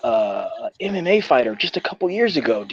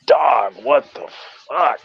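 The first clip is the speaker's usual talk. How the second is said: shocked; 4 semitones higher, slower than usual. Retold or imitated. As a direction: drag it out in shock. Recalled shock at street fight.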